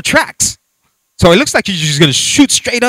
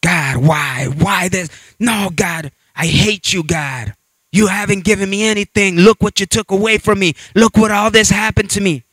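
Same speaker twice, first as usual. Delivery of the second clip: mock tantrum; 3 semitones higher than usual. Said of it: "throw yourself like a little kid".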